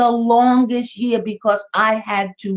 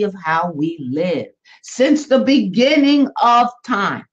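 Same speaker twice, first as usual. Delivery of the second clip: lightly voiced grand movie narration; Cecil B. DeMille; 3 semitones lower than usual. Movie commentator opening the Ten Commandments, low and grand. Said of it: "Cecil B. DeMille might say".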